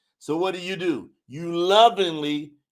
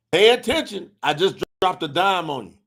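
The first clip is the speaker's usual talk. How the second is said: emphatic repeat. Shown as a demonstration. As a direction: hammer the point a second time.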